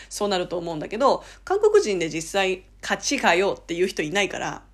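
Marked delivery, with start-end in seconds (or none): 2.8-3.6 neutral, careful recitation; flat, tidy textbook. Shown as a demonstration. What no Korean really says, flat textbook delivery. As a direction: recite it evenly without any push. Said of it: "綺麗に言うから".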